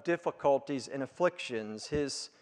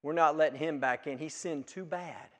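a touch of smug, self-righteous dismissal, fast at the start; self-righteous church; 5 dB quieter than usual. Retold or imitated. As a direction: lightly mimic a prim, self-righteous congregation. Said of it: "a little hotty-totty and self-righteous and going".

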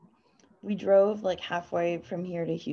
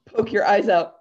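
laughing; 5 dB louder than usual. Retold or imitated. Laughing quote.

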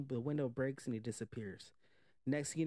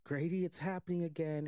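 higher-pitched retold cry for help; a touch of acted urgency; mild mock alarm; 5 semitones higher, 3 dB louder than usual. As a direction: lightly act out a panicked plea. Retold frightened plea to friend.

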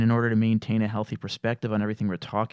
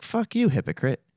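angry retort; 9 semitones higher than usual. Retold or imitated. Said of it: "you're like".

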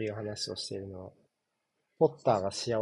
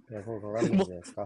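fast, lightly lowered spat-out quote; low voice; 2 semitones lower, much faster than usual. Retold or imitated. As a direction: spit the line out low and quick. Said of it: "すごい低い声で言ってた".

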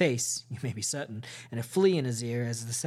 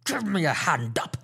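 cried out; 3 semitones higher than usual. A narrator's reading. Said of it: "he cried".

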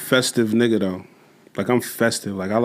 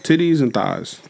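laughing shout; 3 semitones higher than usual. Real, not acted. Laughing shout about sleeping spots.

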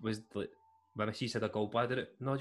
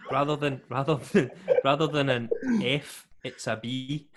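laughing explanation; 3 semitones higher, 9 dB louder than usual. Real, not acted.

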